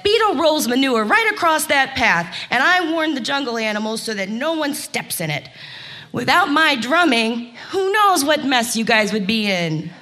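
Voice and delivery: high, self-important bird voice; haughty woodpecker. Acted. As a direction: lecture the tiger from up high. Woodpecker lectures tiger.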